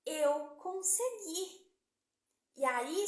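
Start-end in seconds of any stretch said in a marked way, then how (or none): 0.0-1.7 relieved "I did it". Retold or imitated. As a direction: let the relief out slowly. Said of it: "Ela respirou fundo e falou".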